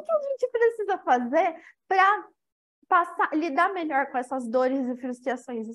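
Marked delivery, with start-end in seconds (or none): none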